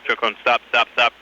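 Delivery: ordinary talk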